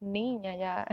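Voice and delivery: put-on a worn-out mother begging her toddler to quit; mother pleading with screaming daughter, softly exasperated; exasperated plea. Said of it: "y yo".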